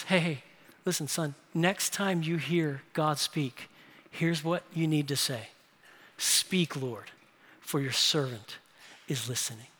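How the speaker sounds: put-on a hushed fatherly instruction to a boy; gentle old Eli. Old Eli gently teaching young Samuel, soft and tender. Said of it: "And so he says".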